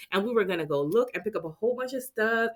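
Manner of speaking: ordinary delivery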